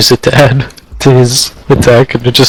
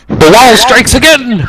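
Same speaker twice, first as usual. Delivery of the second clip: slow, higher triumphant call; excited announcement; 11 semitones higher than usual. Pretend. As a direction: proclaim it like a ringside announcer. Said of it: "I say out loud".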